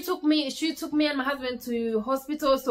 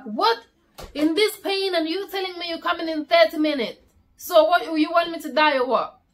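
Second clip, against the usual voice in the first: retold outraged protest, pitch raised; indignant outburst; 5 semitones higher than usual. Mother in labour snapping at the ambulance phone call, indignant. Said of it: "I was like".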